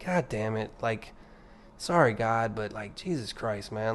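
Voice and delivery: low, hushed, sheepish curse with an apology; apologetic swearing. Retold or imitated. Podcast host imitating someone swearing apologetically to God, hushed and low. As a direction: mutter it like you're sorry for swearing. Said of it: "you can maybe say it apologetically".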